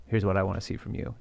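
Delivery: soft, low sultry voice; sultry narrator. Shown as a demonstration. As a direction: breathe it out seductively. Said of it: "in a sexy voice".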